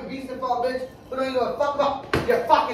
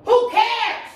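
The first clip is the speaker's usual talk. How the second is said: high, drawn-out angry dismissal; exasperated scorn; 6 semitones higher, much slower than usual. Real, not acted. Fed-up partner dismisses his talk of seeds, exasperated. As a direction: stretch the words out in exasperation.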